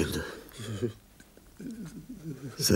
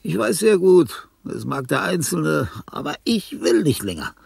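outburst; 8 semitones higher, 6 dB louder than usual. Acted. Outburst of bitterness.

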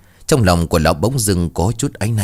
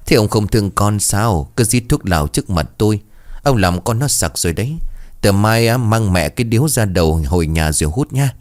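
put-on cutesy baby voice. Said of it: "mụ nói bằng giọng nũng nịu như trách mắng".

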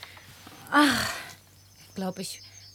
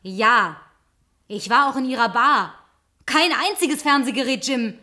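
angry accusation; 7 dB louder than usual. Acted. Angrily exposing his lies.

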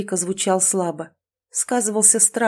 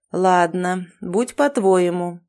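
thoughtful; slower than usual. Acted. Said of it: "задумчиво произнёс злой маг".

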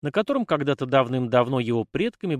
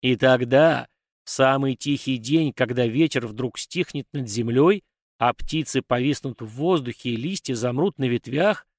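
echoing ethereal energy being. Acted. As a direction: demand it like an ancient offended deity. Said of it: "раздался гулкий голос".

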